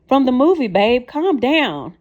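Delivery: high, loud, frantic calming; desperate pleading. A narrator's reading. Wife frantically calming her raging partner, high and pleading. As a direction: plead fast to calm him before he blows. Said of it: "trying desperately to calm him down".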